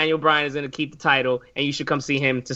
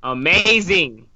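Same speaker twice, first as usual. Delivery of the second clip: drawn out; much slower than usual. Real, not acted. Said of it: "this match is amazing".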